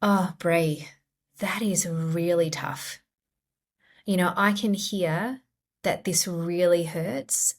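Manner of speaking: tender reassurance to yourself; compassionate voice. Shown as a demonstration. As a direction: soothe yourself kindly, taking your time. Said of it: "compassionate message".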